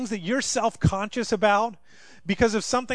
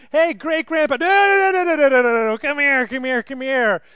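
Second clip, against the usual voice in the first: much higher, loud frantic calling; panicked shout; 6 semitones higher, 9 dB louder than usual. Retold or imitated. Parents yelling at toddler near grandpa, frantic shout. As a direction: shout to stop the kid in alarm.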